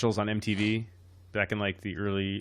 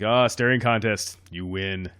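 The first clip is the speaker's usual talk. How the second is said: lightly voiced Will Ferrell goofball; slow deadpan comedy voice; Will Ferrell character; 7 dB louder, slower than usual. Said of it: "You sounded like an old Will Ferrell character".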